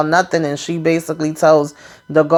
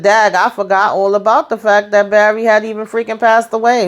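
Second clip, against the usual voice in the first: surprised realization; 5 semitones higher than usual. Real, not acted. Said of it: "So I said".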